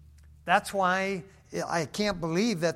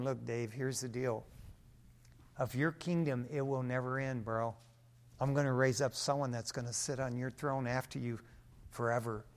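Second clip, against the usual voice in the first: a hint of a laid-back God, lower and softer; casual God voice; 4 semitones lower, 6 dB quieter than usual. God chatting to David as a friend, low relaxed voice. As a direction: speak it low and easy like a buddy. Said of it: "And God told him".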